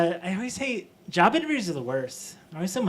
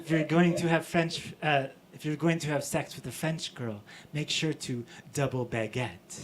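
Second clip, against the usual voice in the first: lower, badly faked French accent; 4 semitones lower, 5 dB quieter than usual. Comic showing off the French being learned, bad French accent. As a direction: attempt a French accent, poorly. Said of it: "I'm terrible at accents".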